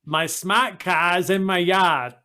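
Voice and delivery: slow Northern Irish voice trying a Boston accent; Boston accent, sounded out carefully. Shown as a demonstration. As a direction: drop the r in car and yard, Boston style. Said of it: "Can you say ... in a Boston accent".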